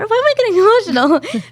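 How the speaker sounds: high, teary laugh on the words; half-laughing, half-choked up; laughing through emotion. Real, not acted. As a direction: laugh it off while welling up. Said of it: "I don't know why I'm getting emotional".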